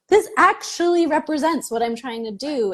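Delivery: imitating a moved client with a high gasp; mildly acted awe after a sharp gasp; retold tearful amazement. Client seeing her new website for the first time, mildly imitated amazement. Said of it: "she was in tears 'cause she was like".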